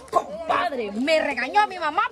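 emphatic, play-acted scolding complaint; mock angry. Shown as a demonstration. Host showing players the angry take, mock angry. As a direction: say it with put-on anger, punching the words. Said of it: "lo tienen que hacer enojado".

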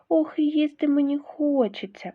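high, loud hungry squeak. Acted. Hungry mouse at the table, high loud squeak. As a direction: squeak eagerly for the pies. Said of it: "пищить Верть".

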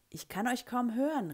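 high-pitched call. A narrator's reading. Teacher to whispering pupils in the schoolyard, calling out. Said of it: "rief ich".

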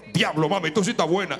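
low Dominican tíguere catcall; Dominican street talk. Retold or imitated. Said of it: "yo hablo dominicano como los tigres".

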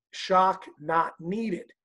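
slow, robotic announcement; machine voice. Retold or imitated. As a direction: read it like the AED. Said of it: "it's gonna say".

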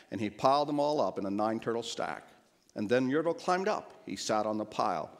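measured, rhyming storybook read; storybook narration. A narrator's reading. Preacher reading a children's story to graduates, storybook narration.

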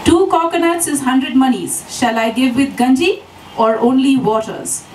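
lightly voiced cheeky boy in Kerala English; naughty youngster. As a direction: tease the foreigners with the price. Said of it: "quizzed the youngster with a very naughty look".

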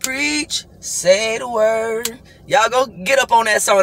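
high, slow call of praise; excited. Real, not acted. Urges viewers to get up on the song. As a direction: hypes the song.

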